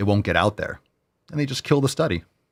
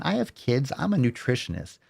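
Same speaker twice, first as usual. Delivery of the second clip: mock nutritionist voice; 5 semitones higher than usual. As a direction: mimic the blonde nutritionist sweetly and mockingly. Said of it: "Just a little blonde woman".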